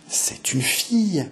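put-on old nurse announcing the birth, slow and high; murmured by the old nurse. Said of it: "murmura la vieille nourrice".

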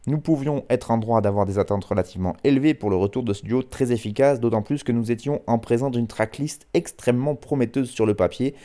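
measured radio read of a written review; reading a review aloud. Acted. Radio host quoting a website's album review, in a presenter's reading voice.

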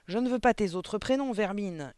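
high, loud insult from a gorgon headmistress; furious yell. A narrator's reading. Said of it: "hurla la gorgone". (hurlement aigu et furieux)

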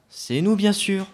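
proud, triumphant cry; excited boast. Real, not acted. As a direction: crow about the win, high. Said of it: "redescends un petit peu".

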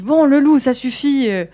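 put-on an irritated girl lecturing a pest, half-hearted anger; exasperated telling-off. Girl tells off the wolf following her, exasperated. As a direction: scold the wolf, fed up, with a sharp start that settles. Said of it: "elle commence à s'énerver encore".

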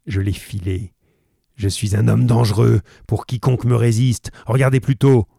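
plus fort, menace qui monte; menace grondante. Acted. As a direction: terrorise ses hôtes avant la démonstration. Roylott menaçant, crescendo. (menace de plus en plus forte)

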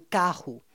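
CARRO with the RR as an H; back double R. Shown as a demonstration. Showing a listener the Brazilian back R, CARRO like "ka-hoo". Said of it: "c'est avec deux R, donc c'est derrière".

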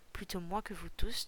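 a mild touch of thunder in the voice; lightly booming, holding back. Acted. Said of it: "tonna le chasseur gris". (un léger grondement de tonnerre)

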